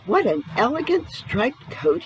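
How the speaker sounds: high, thrilled little elephant; delighted cry. Acted. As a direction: gasp with joy at the new coat. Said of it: "he cried".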